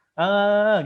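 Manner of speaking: sudden high loud exclamation; loud call. Retold or imitated. Commoner addressing a nobleman, loud high exclamation. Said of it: "kita kan ngomong Prakrit ya".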